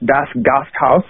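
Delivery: Das Gasthaus in a German accent. Shown as a demonstration. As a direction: say it like a German would. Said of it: "I have to try to say that with my best German accent".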